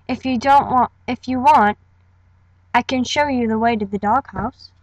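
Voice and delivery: friendly English-accented reassurance. Shown as a demonstration. Tie-Dye offering to guide a newcomer, light English accent. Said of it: "that's tie-dye with an English accent".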